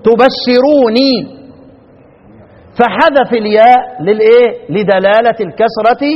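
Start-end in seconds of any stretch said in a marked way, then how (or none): 0.0-1.4 very slow تبشروني with one nun; Nafi's form. Shown as a demonstration. Teacher recites Nafi's form slowly. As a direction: stretch تبشروني, single nun kept. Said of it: "يبقى بقت عنده إيه؟".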